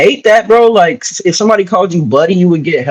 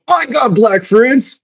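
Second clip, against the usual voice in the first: mock defensive guy; 5 semitones higher, much slower than usual. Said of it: "Paul's equivalent of".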